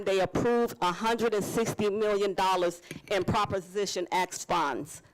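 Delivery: slight lisp from wearing retainers. Real, not acted. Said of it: "I'm lisping here all over the place".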